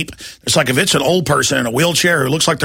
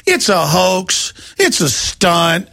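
slow mocking drawl; 3 semitones higher, much slower than usual. Repeating the officials' line slowly.

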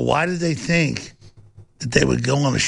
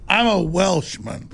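Jon Ronson; 5 semitones higher, slower than usual. Retold or imitated. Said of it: "Jon Ronson was like".

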